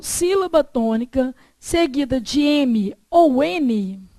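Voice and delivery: measured dictation, phrase by phrase with long pauses. Shown as a demonstration. Teacher repeats the rule for students to copy, measured dictation. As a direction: dictate for note-takers, stretching phrase ends. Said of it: "Vou ditar pra você".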